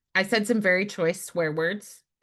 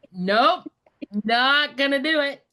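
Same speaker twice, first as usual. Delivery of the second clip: mock flat refusal; 8 semitones higher, 5 dB louder than usual. Refusing to become lay preacher.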